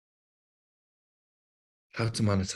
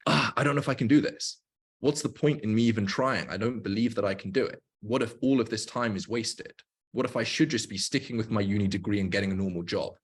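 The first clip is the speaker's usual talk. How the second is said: doubtful whining. Retold or imitated. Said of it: "voice messages to him on repeat was".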